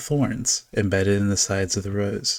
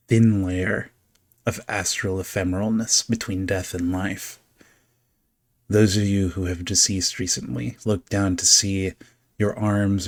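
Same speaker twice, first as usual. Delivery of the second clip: dark scene setting. A narrator's reading. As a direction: draw them into the cold dark.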